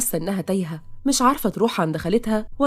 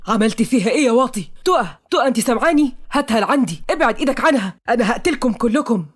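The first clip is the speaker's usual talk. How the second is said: furious shout; 3 semitones higher, 4 dB louder than usual. Acted. Noah shouting at the men holding unconscious Taqa. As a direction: roar threats at the kidnappers. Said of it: "نوح بصوت غاضب وصوت عالي".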